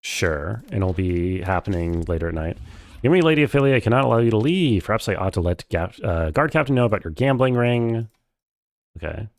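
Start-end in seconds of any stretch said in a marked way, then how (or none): 3.0-8.1 lightly voiced stern character, lifted opening; guard's threat. Warning Lady Ophelia about the gambling ring, lightly acted threat. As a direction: act out a mild threat, pitched up at first.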